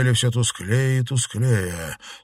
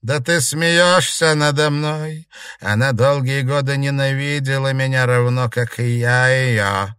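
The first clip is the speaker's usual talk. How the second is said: put-on a dead old woman bargaining from the mirror; old ghost; 5 semitones higher, 5 dB louder than usual. A narrator's reading. Ghost figure.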